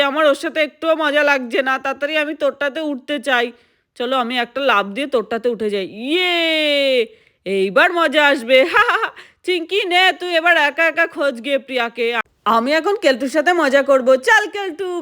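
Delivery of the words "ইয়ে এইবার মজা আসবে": gleeful whoop. Acted. Jumping onto other tube.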